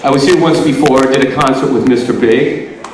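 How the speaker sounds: a bit winded after a workout; out of breath. Real, not acted. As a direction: talk while catching your breath. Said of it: "Sorry, I'm catching my breath here".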